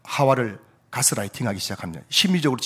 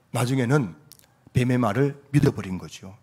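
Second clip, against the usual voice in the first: ordinary talk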